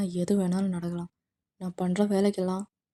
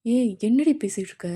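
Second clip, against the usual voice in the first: loud, higher, exasperated outburst; angry snap; 4 semitones higher, 6 dB louder than usual. Acted. Namjoon scolding the girl demanding her kiss back, angry. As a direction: bark at her in disbelief. Man snaps at stubborn girl.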